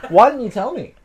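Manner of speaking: embarrassed laughing; asking through laughter. Real, not acted. Discovers his fly was down.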